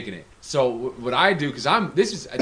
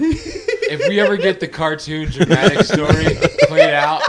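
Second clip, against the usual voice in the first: real belly-laugh exclamation; laughing enthusiasm; 3 semitones higher, 10 dB louder than usual. Real, not acted. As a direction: shout it through a big laugh. Laughing loudly, reacting to story.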